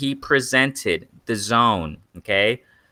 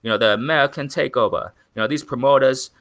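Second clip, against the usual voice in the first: half-hearted mock English accent, a little raised; bad English accent; 3 semitones higher than usual. Promoter boasting of the American Takeover, in a shaky attempt at English accent. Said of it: "do that whole English accent. I'm horrible at it".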